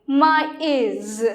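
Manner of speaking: "ma is" as two separate syllables; "ma is", slowly split in two; separated vowels. Shown as a demonstration. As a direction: pronounce the vowels of "ma is" apart. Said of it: "we have to pronounce separately".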